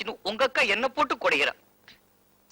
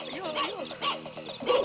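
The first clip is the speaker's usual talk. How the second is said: slow wail; 4 dB quieter, much slower than usual. Acted. Wailing after dog attack.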